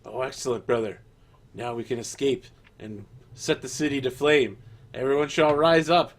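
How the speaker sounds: from plain to loud rallying cry; building fervor. Acted. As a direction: rise into a fanatic anarchist shout.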